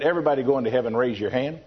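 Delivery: understated, evenly calm pastor. Retold or imitated. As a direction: say it calmly, without pushing. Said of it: "the pastor very calmly said".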